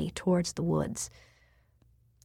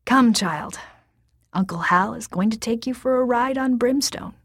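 coaxing; 4 semitones higher than usual. Acted. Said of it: "He turned and smiled at her".

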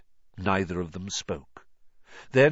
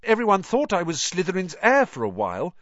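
put-on higher, fast worried boy's voice; anxious boy; 10 semitones higher, 4 dB louder than usual. A narrator's reading. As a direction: pour it out nervously.

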